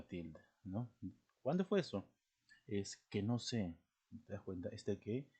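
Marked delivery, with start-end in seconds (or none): 1.4-2.1 CUÁNDO raised high as a question; pregunta directa. Shown as a demonstration. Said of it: "Como pregunta". 2.7-3.7 slow statement with unstressed "que"; respuesta afirmativa. Shown as a demonstration. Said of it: "ya no está funcionando, ¿no? Como pregunta".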